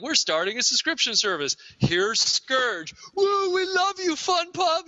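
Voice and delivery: high, gushing fan voice; gushing fanboys cheering their company; mock fawning fans. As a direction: squeal like an adoring fan. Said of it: "They're like".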